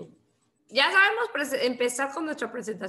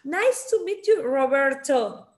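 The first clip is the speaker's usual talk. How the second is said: English-speaker accent; 2 semitones higher, 4 dB louder than usual. Shown as a demonstration. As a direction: greet like an English speaker, untrilled R in "Roberto". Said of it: "vas a escuchar que ellos dicen". (imitando el acento de un angloparlante)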